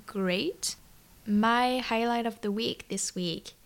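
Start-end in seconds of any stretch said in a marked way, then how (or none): 0.1-0.8 whispering. Real, not acted. Podcast greeting, unvoiced.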